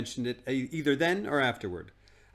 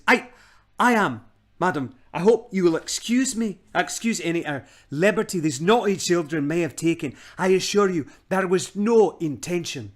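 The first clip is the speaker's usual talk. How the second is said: put-on grovelling old man; 6 semitones higher, 7 dB louder than usual. Uncle Andrew grovelling.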